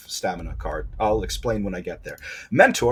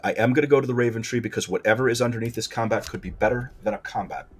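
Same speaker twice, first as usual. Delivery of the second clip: normal talking voice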